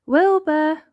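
high, loud call of a name. A narrator's reading. Elmer calls his hidden cousin, calling out. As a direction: call to someone out of sight. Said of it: "called Elmer".

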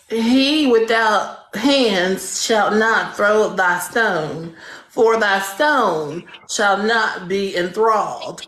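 slow, solemn scripture reading; mock Bible recitation. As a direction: intone it like made-up scripture, drawn out. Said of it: "first line of the fifth page of the Bible say".

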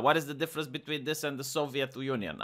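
muted rhetorical echo. Real, not acted. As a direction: let the echo fall away quietly. Rhetorical question repeated softer.

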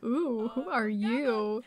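slow, drawn-out curious coo; voicing the Sim. Gamer voicing her Sim meeting a stranger, slow curious coo. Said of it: "She's like".

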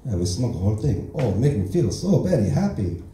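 put-on broken English in a light Asian accent; deadpan Asian-accent stand-up persona. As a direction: play the fresh immigrant with a mild Asian accent. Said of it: "that's not how I actually talk".

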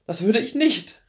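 high, loud, urgent denial; pleading cry. Acted. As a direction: call out the promise desperately. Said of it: "rief sie".

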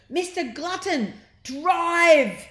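high, loud bellowed order; nasty voice. Acted. Mrs Glutton yelling at her husband to drive, nasty and loud. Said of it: "This was in her nasty voice".

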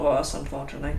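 slipping into a British accent; accidental British lilt. Real, not acted. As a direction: let a British accent creep in, trailing softly. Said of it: "last half of that sentence".

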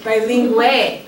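"Bilingue" said slowly in Spanish, bee-LEEN-gweh; "Bilingue" drawn out as a Spanish word; Spanish pronunciation. Shown as a demonstration. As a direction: carefully sound out "Bilingue" the Spanish way. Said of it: "How would you say bilingual in Spanish?".

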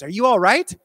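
concerned question. Retold or imitated. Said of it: "she says".

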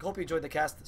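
hoarse from casting; worn raspy voice. Real, not acted. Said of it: "Sorry for my raspy voice".

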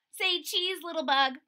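high, loud, playful call; chirpy little photographer; cheerful child voice. Acted.

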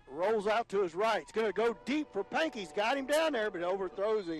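real surge of excitement on the throw; excited play call. Real, not acted. Announcer calling a long pass downfield, excited.

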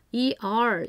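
"er" said as one smooth r-coloured vowel; r-controlled er. Shown as a demonstration. Parent teaching phonics, modelling the "er" sound. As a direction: model the "er" sound clearly for the child. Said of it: "er이라고 발음해줘".

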